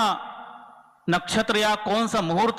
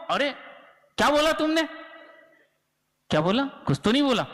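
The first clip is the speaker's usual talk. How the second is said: startled listener; 5 semitones higher, faster than usual. Retold or imitated. Dozing listener wakes, argues.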